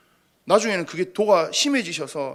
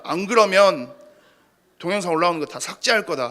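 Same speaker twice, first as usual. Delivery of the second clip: mock stern father laying down the law, rising; a hint of a stern, heated father; quoting angry father. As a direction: imitate a strict father's ultimatum. Pastor voices his angry father's text.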